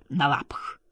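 hushed whispered aside. A narrator's reading. Shérigo slips a jibe to the novelist beside him, whispering. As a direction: whisper it for one pair of ears only. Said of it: "прошептал Виктор Шериго так тихо".

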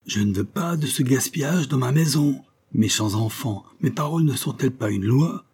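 a lightly voiced angry vicar laying down the law; thundering vicar. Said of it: "la voix tonnante du vicaire".

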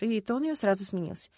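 ordinary delivery

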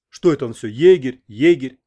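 puzzled. A narrator's reading. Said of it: "недоумённо спросил".

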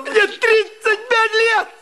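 despairing outcry. Acted. Husband's despairing outburst.

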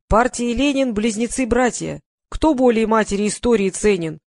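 emphatic, measured poetry recital; declaiming. A narrator's reading. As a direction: recite it like a rousing Soviet verse. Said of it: "продекламировал мужчина за камерой".

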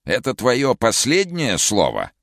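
high, slow, eerie villain voice; sinister other voice. Acted. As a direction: sneer it in an uncanny changed voice. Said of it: "каким-то другим зловещим голосом".

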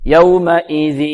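slow يومئذ, nasalised from the hamza on; nasal from the hamza. Shown as a demonstration. Teacher showing where students go wrong, nasal hamza in يومئذ. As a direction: start the nose sound early, at the hamza of يومئذ. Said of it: "يبدأ من الهمزة أحيانًا".

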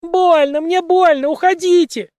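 high, loud, desperate shrieks; woman screaming in pain, high and loud. A narrator's reading. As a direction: scream it as if in agony. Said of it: "кричавшая женщина".

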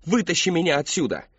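loud, high desperate scream; screaming monster. Acted. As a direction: shriek it like a haunted house actor. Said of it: "бросился на Кристофера с криком".

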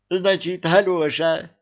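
put-on a gleeful old witch hearing "Алёша!"; delighted. A narrator's reading. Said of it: "обрадовалась Яга".

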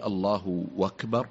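أكبر begun with a w sound, "wakbar"; waw in the takbir. Shown as a demonstration. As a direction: say أكبر as "wakbar", slowly drawn out. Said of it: "واو في وسط التكبير".

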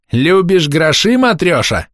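high, drawn-out singsong taunt; mocking shout. A narrator's reading. Boy mocks old woman about money, clownish shout. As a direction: tease her loudly, stretching the words. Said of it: "кривляясь, прокричал другой".

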